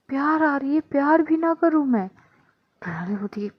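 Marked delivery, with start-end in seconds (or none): 0.1-2.1 tipsy insisting. Acted. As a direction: stretch the words like a drunk girl begging. Tipsy Adhya protesting.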